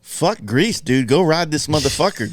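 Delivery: rising from a mutter into an exasperated shout; frustrated outburst. Retold or imitated. Builder to customer leaving for Greece, exasperated rising outburst. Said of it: "you're just sitting there like".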